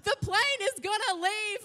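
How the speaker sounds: high, laughing panicked yell; panicked high call to husband about the plane; frantic shout. Retold or imitated. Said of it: "I'm just shouting at him".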